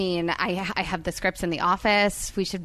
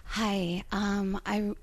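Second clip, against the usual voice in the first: put-on sudden Italian accent; slower than usual. Waiter imitates club wife ordering with put-on Italian accent. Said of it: "And then she'd go back to her regular voice".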